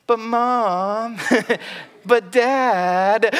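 put-on a kid begging a parent; kid whining. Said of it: "he's just kinda whining".

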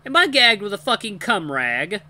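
loud, high, horrified question; appalled outburst. A narrator's reading. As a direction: shout in disgusted disbelief. Appalled realization about the gag.

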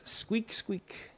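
lightly voiced little mouse answering; mouse squeaks. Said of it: "So he says".

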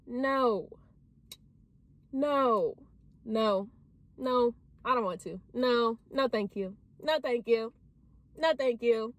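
practising a boss no; boss energy no. Shown as a demonstration. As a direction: shut it down with confidence. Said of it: "Boss energy says no".

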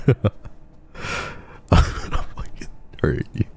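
whispered playful threat; mock threat whisper. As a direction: whisper it like a teasing menace.

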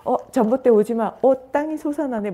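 hammed-up tipsy man, loud and high; drunk talking to a pole. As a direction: act out a drunk seeing the ground rise. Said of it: "술 먹고도".

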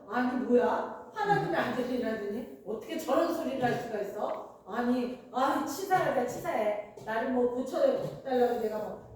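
mildly offended, muttering protest; acted indignation. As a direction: grumble in mock offence, building at the end. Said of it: "화가 날 거 아니에요". (화나서 투덜대는 척)

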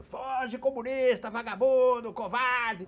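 high, loud mock yell from the neighbours; imitated jeering shout. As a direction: shout insults like a hostile onlooker. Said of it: "dos prédios em volta gritando".

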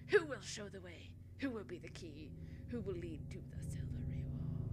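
put-on lightly done English accent. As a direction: read the riddle in an English accent. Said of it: "I can do an English accent".

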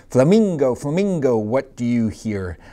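lively sing-song picture-book reading; reading to children. Acted. Teacher reading a picture book to her class, sing-song. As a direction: read it out to a class of little kids.

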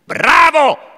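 high, loud delighted cry; enthusiastic shout. Acted. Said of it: "urlò Ivan entusiasta".

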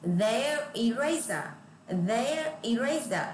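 "Their" with tongue between teeth, slow; slow demo of the th in "Their". Shown as a demonstration. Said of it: "Lại có chữ thờ, các bạn phải đưa lưỡi ra". (đọc "Their" đưa lưỡi ra, chậm)

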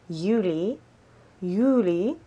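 Juli with a Y sound, "YOO-lee"; German month name. Shown as a demonstration. Learner teaching viewers the months, German pronunciation. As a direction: repeat Juli the German way, each rising at the end. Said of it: "to do the months".

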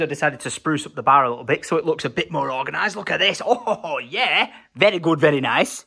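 talking with a tissue up one nostril. Real, not acted. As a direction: speak with a nostril plugged. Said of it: "Whilst I had the tissue up my nose".

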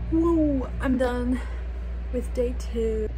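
high, loud happy woo; excited cheer. Real, not acted. Celebrating end of day.

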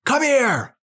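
high-pitched call; loud voice. Shown as a demonstration. Calling your dog in the park, loud voice. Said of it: "in a loud voice".

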